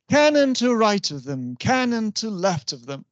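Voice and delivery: CANNON hit on its first syllable, then two light beats; dactylic stress. Shown as a demonstration. Teacher reciting a dactyl example for students, dactylic stress. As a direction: recite with RIGHT and LEFT leading falling triplets.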